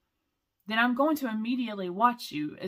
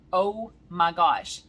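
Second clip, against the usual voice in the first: drawn-out, louder awed gasp of words; slow, marvelling oh my gosh; 9 dB louder, slower than usual. Retold or imitated. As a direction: linger on the oh in wonder. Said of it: "is what I heard".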